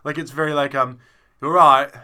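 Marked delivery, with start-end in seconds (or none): 1.4-1.9 put-on a loose, half-remembered Brummie accent; amateur Brummie impression, louder. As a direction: imitate a Brummie bloke, a bit badly. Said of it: "I think it was Brummie".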